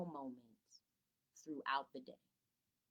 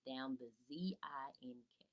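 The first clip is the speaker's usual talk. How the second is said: whisper; 6 semitones lower, 7 dB quieter than usual. Shown as a demonstration. Teacher whispering the misspelling to parents. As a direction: spell it out in a soft whisper. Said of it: "spelling the word in whisper".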